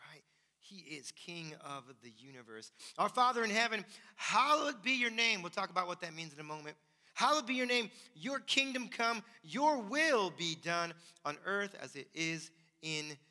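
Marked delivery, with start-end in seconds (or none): 3.0-5.4 loud, raised proclamation of a prayer; scripture recitation. Real, not acted. Reads the Lord's Prayer aloud. 7.1-13.2 raised, slow proclamation; scripture recitation. Real, not acted. Resumes reciting the Lord's Prayer.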